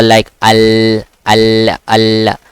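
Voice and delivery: AL with the l firmly held; proper lam. Shown as a demonstration. Teacher drilling the Arabic lam, proper lam. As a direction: linger on the L of each AL. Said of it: "pronounce the lam proper".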